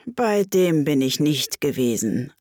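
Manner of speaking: mildly regretful, sighed reply; sigh, then admit it; a touch of resignation. Acted. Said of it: "mit einem Seufzer".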